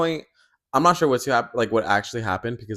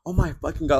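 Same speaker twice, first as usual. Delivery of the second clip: mad; 6 semitones higher, faster than usual. Retold or imitated. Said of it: "like, all mad".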